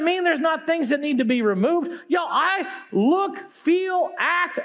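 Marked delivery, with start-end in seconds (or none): 2.1-4.6 emphatic shout. Real, not acted. Pastor calling out to the congregation, shouting. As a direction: belt it out to the congregation.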